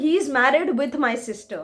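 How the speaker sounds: slow, careful read of the wrong sentence; teacher slowly reads out the mistake for students, deliberate; slow wrong example. Shown as a demonstration. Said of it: "correct sentence ये नहीं है".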